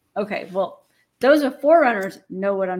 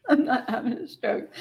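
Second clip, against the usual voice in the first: laughing; 3 semitones higher, 4 dB quieter than usual. Real, not acted. Laughing denial.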